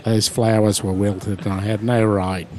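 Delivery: Australian romantic apology. Acted. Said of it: "Especially in romantic situation".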